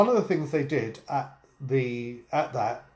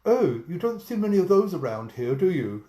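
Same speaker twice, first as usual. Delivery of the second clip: higher joke-frog voice for the punchline; wide mouth frog; 4 semitones higher than usual. Acted. Frog answering the frog-eating alligator, higher cartoon voice. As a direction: play the frog suddenly caught out. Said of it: "So the wide mouth frog says".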